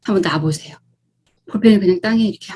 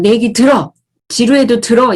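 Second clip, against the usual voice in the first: bossy parent; 3 semitones higher than usual. Retold or imitated. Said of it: "이거는".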